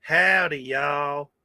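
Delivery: lightly put-on Southern American drawn-out greeting; Southern American dialect. Streamer teases Australian viewer, mock Southern American greeting. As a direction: mimic a Southern American howdy. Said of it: "a Southern American dialect".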